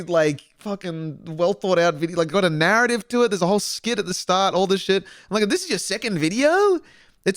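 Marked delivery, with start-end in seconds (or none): 5.5-6.8 amazed disbelief. Retold or imitated. Amazed at a newcomer's quality.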